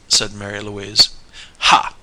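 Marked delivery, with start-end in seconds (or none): 1.6-1.9 short, loud burst of scorn; explosive. A narrator's reading. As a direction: explode on the single syllable. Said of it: "exploded he again".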